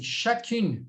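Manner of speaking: chacune said with an audible final N; demonstrated pronunciation. Shown as a demonstration. Teacher shows class the feminine form, demonstrated pronunciation. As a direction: model "chacune", ending on a sounded N. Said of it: "você vai falar assim".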